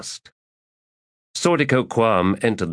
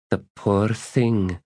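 slow, lightly mocking pity; dry pity; 3 semitones higher, slower than usual.

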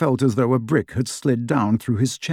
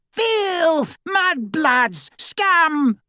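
put-on shrill, much higher screaming old witch; screaming portrait; much slower than usual. A narrator's reading. Portrait of Sirius's mother screaming at intruders, shrieking. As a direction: screech the insults like a raging portrait. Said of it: "she screamed after them".

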